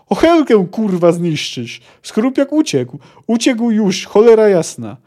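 fuming that the racket scared the beast off; angry yelling. Acted. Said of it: "wrzasnął po chwili Zoltan".

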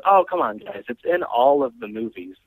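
exasperated mock pleading; imitated protest. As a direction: mimic a friend insisting she's right. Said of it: "And she goes".

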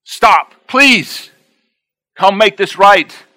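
high, loud begging plea; begging the cheating husband, pleading. Retold or imitated. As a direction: beg him to stop. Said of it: "I begged him".

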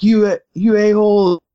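slow, high-pitched mock outburst; retold blow-up. Guy blowing up at the pastor, mock outburst. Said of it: "he again blew up and was like".

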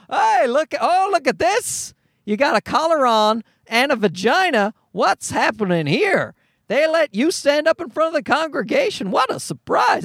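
high, hammed-up amazement; mock astonishment. Pretending to marvel at a lady minister, mock astonishment. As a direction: make a big sarcastic show of being amazed.

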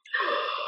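soft retold gasp; hushed intake of breath; startled gasp. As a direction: suck in a breath in mock alarm. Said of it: "and I'm like".

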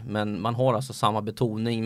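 normal talking voice

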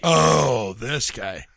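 phone it in, letting it sink away; no feeling, phoned in. Pretend. Co-host greeting a voicemail caller, phoned in without feeling. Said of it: "you had no feeling in that, man".

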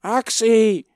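high, loud curse breaking into cries; furious yell. A narrator's reading. Boy dragged to the block yelling at soldiers and parents, furious cries. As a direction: rage and scream for his parents. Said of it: "he yelled".

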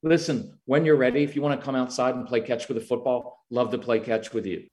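dad calmly inviting a frustrated son to play catch; calm invitation. Shown as a demonstration. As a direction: invite him out gently. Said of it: "I'd walk in and say".

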